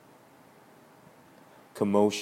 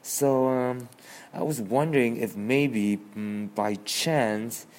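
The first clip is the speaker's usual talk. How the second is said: nervous; 3 semitones higher than usual. Acted.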